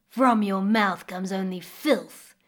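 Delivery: slow growl of an angry crocodile. Acted. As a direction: growl it out slowly like a beast. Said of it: "growled the crocodile".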